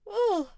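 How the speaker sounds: loud, high yawn. Real, not acted. Streamer fails to hold back a yawn, loud yawning. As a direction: let out a big yawn. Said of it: "sorry to yawn on you guys".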